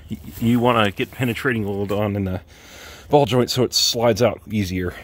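winded, breathing hard between words. Real, not acted. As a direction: talk while catching your breath. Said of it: "I am out of breath right now".

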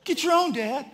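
high-pitched mock little boy; bratty kid refusal. Son refuses dad a French fry, bratty. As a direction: imitate a child snapping back at a parent.

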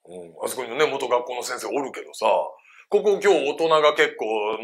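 ordinary talk, nothing marked

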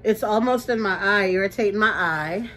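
nose burning, hard to breathe; strained, burning sinuses; after eating wasabi. Real, not acted. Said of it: "My nose is burning".

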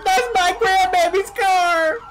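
high, loud, drawn-out shriek; slow screaming. Acted. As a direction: stretch the scream as he drives off. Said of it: "I've got you screaming at me".

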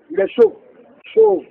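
put-on high-pitched children's jeer; mocking children. Preacher retells children mocking the prophet, high mocking call. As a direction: imitate children taunting, pitched well up. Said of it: "des enfants comme ça se moquer de lui".

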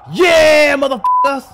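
loud, high gloating shout; triumphant trash-talk holler; taunting victory yell. Acted. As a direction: yell it in the losers' faces. Player taunts former team.

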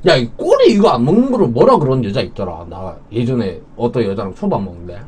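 talking around a mouthful; chewing between words; mouth full, chewing. Real, not acted. Seen 1: Ate sushi at -4s; jaw and lips keep chewing while talking.

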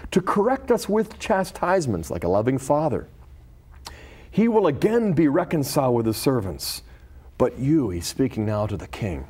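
measured, solemn reading of a scripture story. Acted. Reads scripture story aloud.

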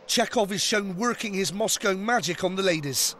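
documentary host narration; lively programme narration; TV voice-over. A narrator's reading. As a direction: narrate it like a TV presenter.

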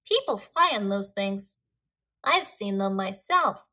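calm, matter-of-fact little bird. A narrator's reading. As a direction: say it calmly, unruffled. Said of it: "Yuri said calmly".

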